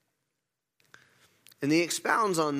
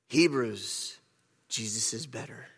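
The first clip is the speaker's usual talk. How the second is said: low, hushed movie-trailer voice; movie announcer voice; 5 semitones lower, 3 dB quieter than usual. Acted. Preacher reading the book's subtitle to congregation, movie announcer voice. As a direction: intone it like a film title, deep and soft. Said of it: "it'd be read in that movie voice".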